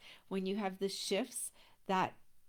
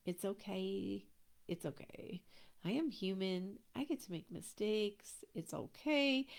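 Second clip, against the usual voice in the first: soft, reassuring "it's okay", quieter; soothing self-talk; 3 dB quieter than usual. Retold or imitated. Coach to herself after missing the flight, softly reassuring. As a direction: comfort yourself gently after a mistake. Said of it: "I can stop and redirect".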